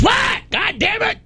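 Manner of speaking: high irritated shout; yelling back. Retold or imitated. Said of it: "they can yell back and forth".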